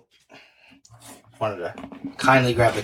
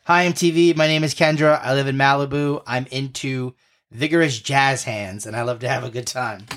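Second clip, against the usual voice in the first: put-on bubbly Valley Girl, lifted pitch; 2 semitones higher than usual. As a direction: play it like a Malibu reality star. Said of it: "my best Valley Girl impression".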